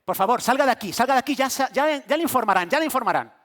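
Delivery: brusque dismissal. Retold or imitated. Staff shooing him out.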